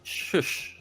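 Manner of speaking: breathy mock shush to hush the room. Everyone hushing the government, a whispered shush. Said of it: "everyone's like".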